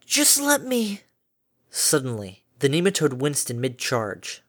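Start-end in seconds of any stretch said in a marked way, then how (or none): 0.0-1.0 1 slow plea. A narrator's reading. Fluttershy pleading again.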